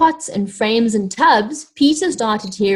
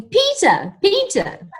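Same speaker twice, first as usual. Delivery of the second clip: calling out; 11 semitones higher, slower than usual. A narrator's reading.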